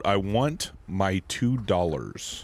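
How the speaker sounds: slow, drawn-out movie quote; slow movie quote delivery; quoting the movie. Retold or imitated. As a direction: read the tagline slowly like the film line. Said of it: "on the back there's a quote".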